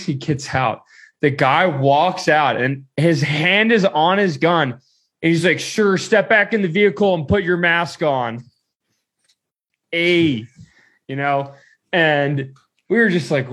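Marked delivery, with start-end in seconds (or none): 5.6-8.4 lightly voiced guard, pitched higher; firm mock official instruction; border guard's order. Guard orders driver back into the car, mock-official.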